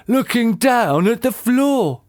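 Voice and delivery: slow, high-pitched amazement; shocked gasp. A narrator's reading. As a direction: draw it out in disbelief. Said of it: "gasped Mister Twit".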